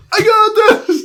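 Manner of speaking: high confident yell; hammed-up heroic yell; mock shout. Character shouts while running off.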